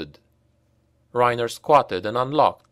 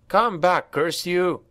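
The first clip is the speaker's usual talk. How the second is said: calling after; 7 semitones higher, slower than usual. A narrator's reading. Reiner shouting after escaping slaves, higher. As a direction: yell after them. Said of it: "he called after them".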